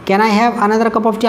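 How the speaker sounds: slow, clear polite request; slow dictation. Shown as a demonstration. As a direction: model the question slowly. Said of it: "आप किसे मांग रहे हैं". (धीरे-धीरे विनम्र सवाल)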